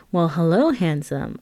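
a light, teasing come-on; flirty. Retold or imitated. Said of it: "I'd play along flirtatiously".

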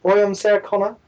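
lightly hammed Australian twang; Sarah Connor. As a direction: do a rough amateur Australian accent. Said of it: "got the Australian Sarah Connor thing".

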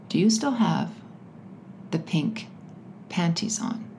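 hushed, halting caller imitation, fading out; creepy whispering caller. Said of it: "he's whispering".

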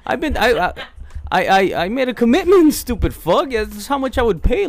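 retold heated rant. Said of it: "I'm like, What".

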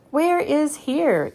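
slow, high, loud call. A narrator's reading. Girl asking the creature below, slow loud call. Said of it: "Annie called down".

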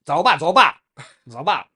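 loud, punchy mock-Chinese shouting; forceful Chinese calls. Showing his co-host how Chinese carries momentum, loud forceful calls. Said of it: "勢いが出るよね".

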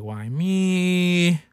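high, drawn-out mock whine; mock pouting. Imitating guys who pout when sick, mock whiny. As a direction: imitate a sick guy feeling sorry for himself. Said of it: "they will pout about it".

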